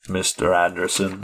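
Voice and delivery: measured, put-on droll tone. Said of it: "such droll voices".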